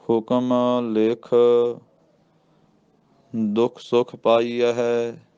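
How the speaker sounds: slow chant with a brief rest after ਲਿਖ; ਲਿਖ ਤੇ ਠਹਿਰਾਓ; short pause after ਲਿਖ. Shown as a demonstration. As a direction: hold a beat at ਲਿਖ, then go on. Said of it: "ਲਿਖ ਦੇ ਉੱਤੇ ਥੋੜ੍ਹਾ ਜਿਹਾ ਠਹਿਰਾਓ".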